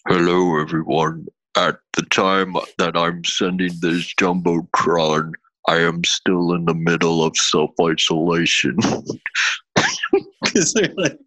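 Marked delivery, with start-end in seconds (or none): 0.1-8.8 lightly lowered, distant hacker voice; a hint of a deep garbled hacker. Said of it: "Do hacker voice for this".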